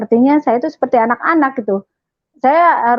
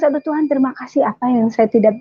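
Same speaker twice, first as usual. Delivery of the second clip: tearful prayer; 5 semitones higher than usual. Retold or imitated. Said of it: "saya nangis".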